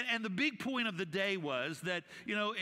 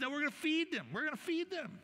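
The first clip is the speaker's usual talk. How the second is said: Jesus insisting; 9 semitones higher than usual. Retold or imitated. Jesus voiced in retelling.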